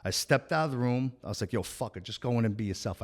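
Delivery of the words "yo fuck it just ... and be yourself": a hushed pep talk to himself, much softer; self pep talk. Retold or imitated. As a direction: psych yourself up under your breath.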